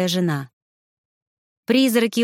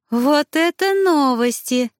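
higher and louder, thrilled; delighted exclamation; 7 semitones higher, 4 dB louder, slower than usual. A narrator's reading. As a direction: burst out with glee. Elisa claps, delighted.

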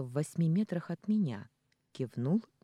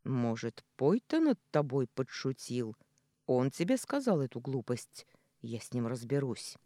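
rougher voice. Acted. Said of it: "Его голос вдруг стал грубее".

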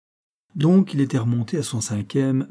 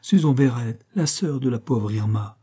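soft little woman's voice. Acted. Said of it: "C'était une voix de femme, toute douce, toute fluette".

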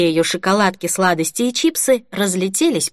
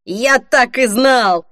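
slow, higher triumphant exclamation; joyful; 4 semitones higher, 4 dB louder, much slower than usual. A narrator's reading. Young clerk delighted he recognised Holly, joyful. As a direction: exult at being proved right. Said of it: "Паренёк от радости захлопал".

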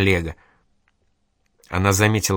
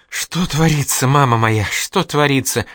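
wailing lament; 4 semitones higher, 3 dB louder than usual. Acted. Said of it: "причитала она и всхлипывала".

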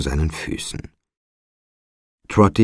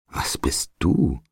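slow, puzzled question; confused; 4 dB quieter, slower than usual. A narrator's reading. Trotty asks the child what it is, slowly puzzled. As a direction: ask slowly, a touch bewildered. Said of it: "sagte Trotty verwirrt".

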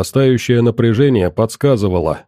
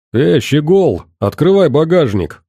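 barked order, a touch higher; commanding shout; 4 semitones higher than usual. Acted. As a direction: yell the order like a thug boss. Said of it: "приказным тоном выкрикнул Серёга".

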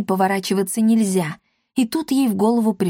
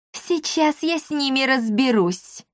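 menacing witch; 5 semitones higher than usual. A narrator's reading. Witch promises to deal with kids. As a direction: promise trouble sweetly. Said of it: "пообещала ведьма".

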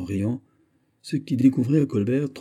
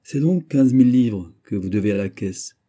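louder, heated and jealous; 6 dB louder than usual. Acted. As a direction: press the point with jealous heat. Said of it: "emporté par sa jalouse ardeur". (emporté par une ardeur jalouse)

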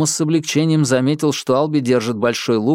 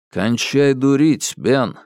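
calm; slower than usual. Acted. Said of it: "спокойно произнёс Алби".

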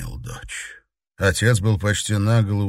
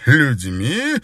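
Людьми? rising in scornful disbelief; mocking echo; 5 semitones higher, 6 dB louder than usual. A narrator's reading. Derzhavin mocking his daughter's word, scornful rise. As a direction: repeat людьми as a sneering question. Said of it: "Державин расхохотался".

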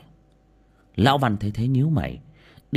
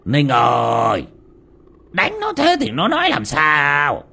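loud, higher call to stop his son; 4 semitones higher, 5 dB louder, slower than usual. Acted. Father calling from the steps to his son, loud call. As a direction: call across the yard, reproachful. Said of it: "mới gọi".

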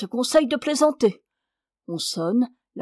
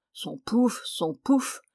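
grumbling irritation; slower than usual. Acted. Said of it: "se retournant avec humeur".

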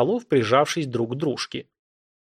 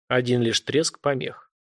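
plain reading voice

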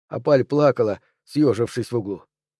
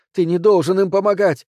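loud, higher shout stressing должен; desperate shout; 6 semitones higher, 3 dB louder than usual. A narrator's reading. Anne-Cécile shouts at Bastien not to help them. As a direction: yell the order at him. Repeated plea, first take.

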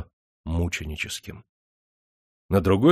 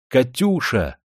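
calling out; 4 semitones higher, slower than usual. Acted. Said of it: "в последний раз окликнул её".

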